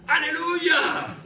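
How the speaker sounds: very high, loud, stretched-out hallelujah; Silas shouting. Acted. Silas in prison praising God, ecstatic drawn-out shout. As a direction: cry it out slowly at full voice. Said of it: "Silas gritando".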